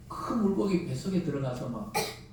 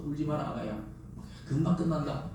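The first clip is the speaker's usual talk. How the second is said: gentle reassurance; 4 dB quieter than usual. Retold or imitated. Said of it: "그런 음성이 옆에서 들리더라고요".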